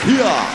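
"here" as loud, high hee-ah; botched Southern "here". Retold or imitated. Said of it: "Nobody says that".

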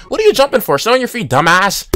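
sudden high-pitched exasperation; irritated outburst. Real, not acted. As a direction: scold the opponent mid-sentence. Snapping at jumping opponent.

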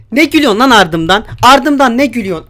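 loud, confrontational demand; indignant scolding. Real, not acted. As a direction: tell off someone laughing behind your back. Scolding character laughing behind him.

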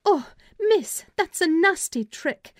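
high, loud outcry of protest; a hurt servant girl's loud, high-pitched complaint; indignant scream. A narrator's reading. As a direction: cry out in pain and outrage. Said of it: "screamed out".

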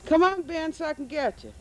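calling out. Real, not acted. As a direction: call out across the yard. Calling a child from afar.

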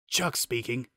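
put-on raspy old man voice. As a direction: rasp the greeting out. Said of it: "a raspy voice said".

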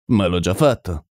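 calm, understated reply. A narrator's reading. Holmes answers colonel about the killer, mildly calm. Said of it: "rispose tranquillo Holmes".

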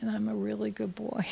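put-on boy echoing his mother in a whisper; whispered repeat. Small boy repeating his mother's words, whispered. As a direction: whisper it back as the little boy. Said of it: "And he'd say".

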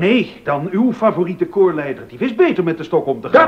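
loud, biting sarcasm; cutting sneer at a rival; sarcastic jab. Acted. Heated quarrel with Bach.

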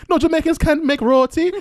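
high, loud insistent mother; mock indignant mother. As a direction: insist hotly, mimicking mum. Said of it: "She was like".

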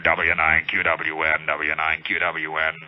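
low, slow radio call sign; ham operator calling. Acted. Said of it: "a guy comes back around on the frequency".

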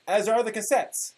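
mock-grand reading of an old forum post; dramatic reading. Podcast host reading an old anime forum post, mock-dramatic. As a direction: read it like a solemn proclamation. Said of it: "I will be giving you a dramatic reading".

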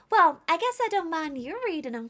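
grudging little character voice; game character. Acted.

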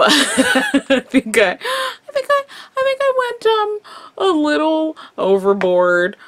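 high, giggly and stretched out; laughing. Real, not acted. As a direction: giggle it out sheepishly. Laughing at overdone look.

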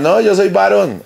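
slow, high mock reply; drawn-out imitation of the rival; hammed-up high voice; mimicking Camilo. Quoting Camilo.

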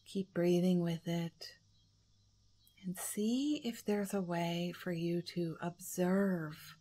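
unhurried guidance, leaving room to breathe; guided meditation. Acted.

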